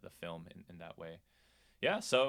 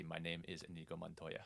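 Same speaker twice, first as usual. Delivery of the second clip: softer, laughing Inigo Montoya line; playful quote; 4 semitones lower, 12 dB quieter than usual. Pretend. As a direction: quote it quietly through a laugh. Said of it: "it should be".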